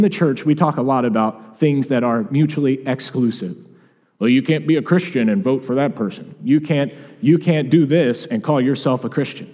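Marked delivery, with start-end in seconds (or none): 4.2-9.5 mock preachy judgmental tone; lightly voiced self-righteous churchgoer; a hint of the scolding pew critic. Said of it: "I'm using that voice because you know people who talk like that".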